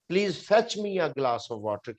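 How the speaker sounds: slow, word by word teaching read; slow example sentence. Shown as a demonstration. Teacher gives students an example sentence, slowly. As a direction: spell the sentence out slowly for learners. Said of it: "फेच का मतलब होता है जाकर लाना".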